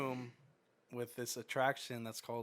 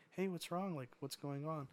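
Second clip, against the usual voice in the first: nice manager; 4 semitones higher, 4 dB quieter than usual. Retold or imitated. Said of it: "She was so nice".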